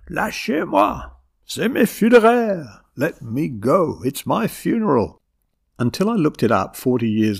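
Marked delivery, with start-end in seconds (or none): 0.1-5.2 high, wailing outburst, peaking loud; full-volume screaming. A narrator's reading. Grandmother fighting off grandchildren, screaming at full volume. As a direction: scream it high, stretching the words. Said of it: "as she reached full volume".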